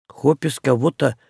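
hushed, disbelieving question; half-whispered astonishment; amazed. Acted. Witch stunned by the news about Hopis, asking in quiet amazement. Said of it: "изумилась ведьма".

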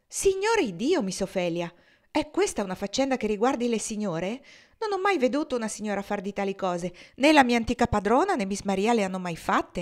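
a flustered cook excusing her mess; lightly voiced, defensive old cook; Dina the cook. Dina protests, voiced higher.

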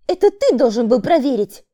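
angry woman. A narrator's reading. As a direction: throw blame back. Woman blames man. (злой упрёк)

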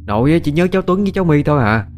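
snapping mother. Acted. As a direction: snap at the child, bitter about grandma. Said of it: "Xuân gắt lên".

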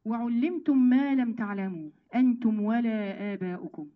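slow, drawn-out chanted verse; Quran recitation. Acted. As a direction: stretch each word of the verse. (تلاوة بطيئة ممدودة)

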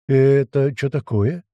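slow gurgling voice; gurgling tentacle alien. Acted. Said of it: "пробулькал Туман".

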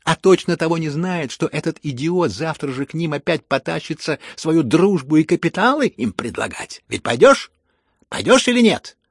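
rising angry yell at the prince; furious shout. A narrator's reading. Lizaveta berates the prince.

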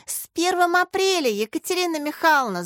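high, loud triumphant shout; April Fool's shout, high and loud. A narrator's reading. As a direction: yell it out in triumph. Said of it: "закричал Лёнька".

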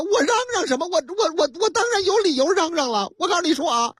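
调门拔高地连珠顶嘴; 演一个不服气的司机高声争辩; 嚷嚷争辩. Acted. (高调急躁地嚷)

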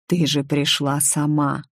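usual speaking voice

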